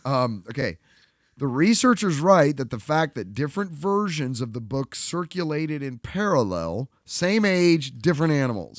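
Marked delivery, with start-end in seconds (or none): 1.4-8.8 loud, clear reread for the room; louder for the back row. Shown as a demonstration. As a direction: project it to the people in the back. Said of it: "for loud for the people in the back".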